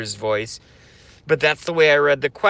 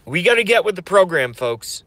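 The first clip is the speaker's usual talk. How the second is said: fast rally cry, voice straining; rally cry again; 2 semitones higher than usual. Acted. Streamer rallying followers again with a fast, strained cry. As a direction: push it out fast through a tired voice. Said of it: "I'm losing my voice".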